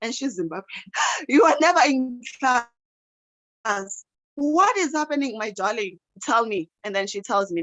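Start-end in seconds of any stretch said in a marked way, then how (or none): 1.3-6.7 gentle teacher. Retold or imitated. Teacher gently questioning absent student.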